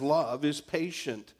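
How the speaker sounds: loud and emphatic; preached verse. Acted. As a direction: proclaim it. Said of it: "repeats verse preached".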